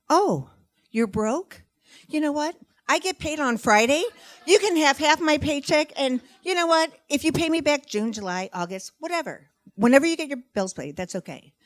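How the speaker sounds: high, loud, gushing offers; uncontrollable generosity. Acted. Woman offering money to a broke friend, hammed-up gushing. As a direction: spill out offers as if unable to stop. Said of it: "words spew uncontrollably out of my mouth".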